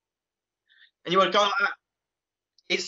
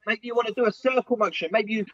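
panting while doing the moves; breathless from the exercise; out of breath; faster than usual. Real, not acted. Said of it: "I'm out of breath now".

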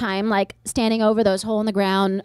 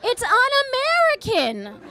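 mock fury; 9 semitones higher than usual. Niece ranting at her Iranian aunt, mock fury with laughs. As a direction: fake anger through laughter. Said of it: "I was so mad".

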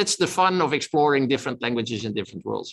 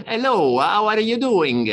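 French-accented English, much higher and louder, slow; mock French accent; 8 semitones higher, 5 dB louder, much slower than usual. Shown as a demonstration. Speaker imitating how a Frenchman speaks English, in a hammed-up French accent. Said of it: "a Frenchman would say".

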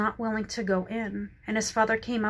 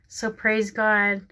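louder and slow, drawing out each word; slow loud praise; 6 dB louder, much slower than usual. Real, not acted. After reading the prodigal story to viewers, a slow loud praise. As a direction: let the praise ring out slowly.

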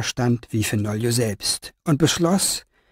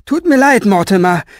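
raised, higher call through the door; 7 semitones higher, 6 dB louder than usual. Acted. Fenoglio calls apologetically to Mortimer at the door, raised voice. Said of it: "rief er".

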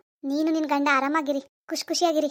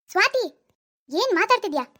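angry scolding; 4 semitones higher than usual. Acted. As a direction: call her name sharply, then scold. Mother scolds daughter over adoption.

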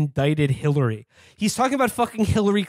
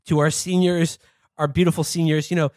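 mock-soothing Trump voice, pitched up; Trump impression; 3 semitones higher than usual. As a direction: coo at the seniors like Trump. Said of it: "he was just like".

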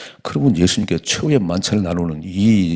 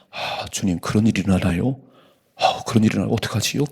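humble asking Peter. Shown as a demonstration. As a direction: ask gently, a little anxious. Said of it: "이렇게 물어야지". (주님께 조심스럽게 묻는 제자)

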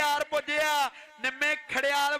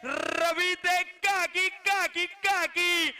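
excited name call; 3 semitones higher, much slower than usual. Real, not acted. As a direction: stretch the name, rising with excitement. Drawn-out name calls in excitement. (ਜੋਸ਼ ਨਾਲ ਲਮਕਾ ਕੇ ਨਾਂ ਪੁਕਾਰਨਾ)

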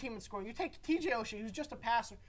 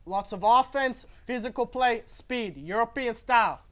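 put-on Russian accent; 2 semitones lower, 3 dB louder than usual. Panelist picking Russia for the hockey gold, in a mock Russian accent. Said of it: "That was a great accent".

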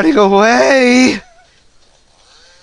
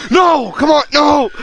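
high shouted protest; frustrated shout; 5 semitones higher than usual. Real, not acted. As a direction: yell it in protest. Caught by enemy.

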